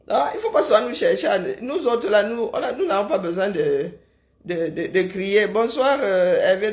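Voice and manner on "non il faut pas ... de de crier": talking through laughter; chuckling through the words; laughing. Real, not acted. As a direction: laugh as you speak.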